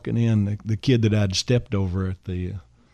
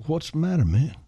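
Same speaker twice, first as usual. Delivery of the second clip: higher-pitched, tentative imitation; a singer; 6 semitones higher than usual. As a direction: lightly imitate a concerned singer friend. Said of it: "I can't imitate him. I wish I could".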